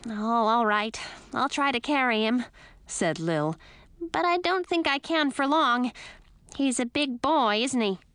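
high tiny creature chatter; squeaky bat voice. A narrator's reading. Lil the bat's voice.

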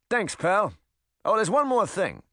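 high, brash little rabbit voice; fast-talking critter; pushy rabbit. Acted.

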